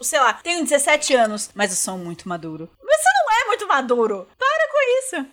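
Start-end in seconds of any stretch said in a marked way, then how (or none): 1.5-2.7 low, quiet smug voice; lightly voiced smug teen; mocking smug teen. 2.8-5.3 high, exasperated comeback; exasperated retort. Real, not acted. Retorting to the character.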